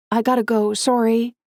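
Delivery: rushed and bright; hurried. Acted. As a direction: hurry it out, apologetic. Rushed to take call.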